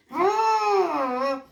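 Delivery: long high sung-out Oh; delighted oh. Real, not acted. Teacher admires the sky she just painted, delighted. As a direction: let the oh melt with delight.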